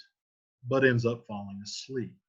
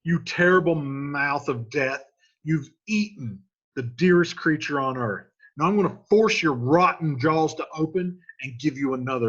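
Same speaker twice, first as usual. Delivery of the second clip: loud paraphrase of Romeo; 2 semitones higher, 5 dB louder than usual. Retold or imitated. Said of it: "So he's like".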